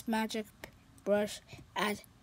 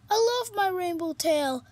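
a touch higher, quick unicorn voice; lightly voiced sad unicorn; 5 semitones higher, faster than usual. Stevie telling Pete about the party, lightly worried.

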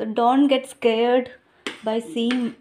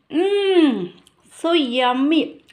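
savoring; 3 semitones higher, 3 dB louder, much slower than usual. Real, not acted. Tasting her biryani.

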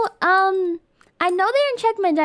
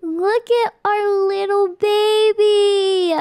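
slow, drawn-out doting coo; 3 semitones higher, slower than usual. Real, not acted. Player shows off our little baby, slow gushing coo.

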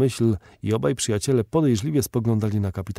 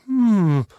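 long, loud high-pitched hmm, gliding down; surprised falling hum; astonished hum; 10 semitones higher, 6 dB louder than usual. A narrator's reading. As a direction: hum in wonder, loud and drawn out. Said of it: "zadziwił się J T Maston".

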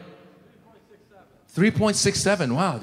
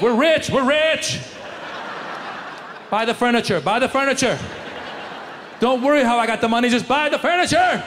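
higher, laughing mock glee down the phone; gleefully telling the wife to splurge; giddy excitement; 5 semitones higher than usual. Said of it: "I called my wife".

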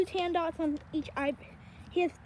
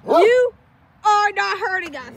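Duke's voice; 4 semitones higher, 12 dB louder than usual. Pretend. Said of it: "This is what Duke's saying".

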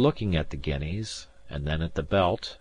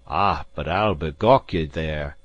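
crying out; 2 semitones lower, 4 dB louder than usual. Acted. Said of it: "cried the gentleman".

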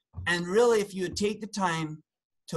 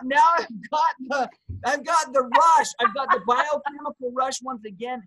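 mock rush; 6 semitones higher than usual. Acting out the adrenaline rush.

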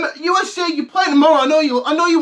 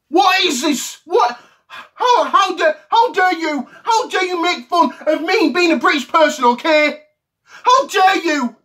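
mock outrage; 4 semitones higher than usual. Mock outrage at American player.

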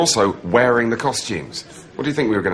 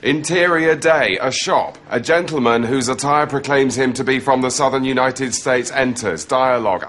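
mock script read-out; reading off autocue; 4 semitones higher, 3 dB louder than usual. Mocking partner's ideal sketch show, autocue reading. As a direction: read stage directions straight to camera. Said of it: "reading the scripts to camera on auto cue".

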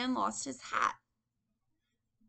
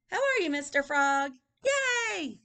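high, loud, ending in a cheer; gleeful little boy; 6 semitones higher, 7 dB louder than usual. Acted. Teacher voices boy having fun, high and gleeful. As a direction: play excitedly with a pretend friend.

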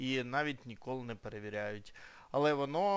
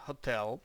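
hotel with the stress on TEL; teacher's model hotel, ho-TEL; stress on second syllable. Shown as a demonstration. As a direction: say hotel leaning on the final syllable. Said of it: "наголос саме на другий склад".

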